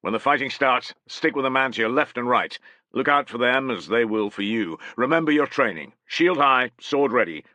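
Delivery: a veteran officer steadying nervous troops; centurion rallying his men. Acted.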